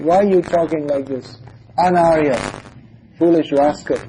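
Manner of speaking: mild acted rebuke, firmer on the insults; chastising. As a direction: scold a foolish pupil with measured force. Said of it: "Krishna chastised him".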